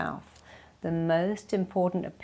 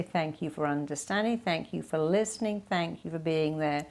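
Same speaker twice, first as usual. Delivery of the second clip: softer, settled thank-you; quiet grateful reassurance; grateful and calm; 2 semitones lower, 4 dB quieter than usual. Shown as a demonstration. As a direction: say thanks gently instead of apologizing. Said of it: "always say".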